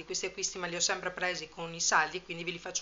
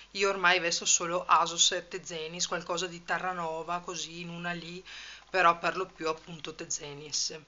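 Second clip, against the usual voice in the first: panting after climbing stairs; breathless from three flights of stairs; out of breath. Real, not acted. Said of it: "scusate il fiatone".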